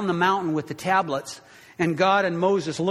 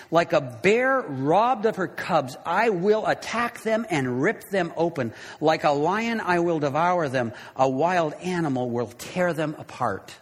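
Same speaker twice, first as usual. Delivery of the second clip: anger bursting out. Acted. God warns his people in chapter thirteen, mildly angry. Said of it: "he lets his anger burst out".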